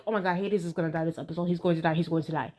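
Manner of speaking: inner panic. Retold or imitated. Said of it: "I was like".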